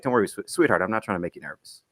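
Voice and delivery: gently reassuring, low and easy; calm her down, softening as you go; understated soothing, tailing off low; retold reassurance. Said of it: "calm her down".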